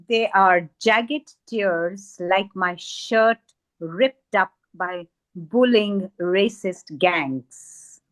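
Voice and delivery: slow, measured verse reading with deliberate pauses; poetry recitation. Acted. Poet reads a poem on mending a torn world, measured recitation. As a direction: recite in spaced phrases, swelling and falling.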